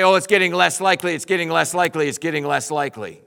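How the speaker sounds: lightly voiced fretting doubter, a bit fast; mild mock worrier counting down. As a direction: mimic someone losing hope. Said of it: "I don't want to click off the time and say".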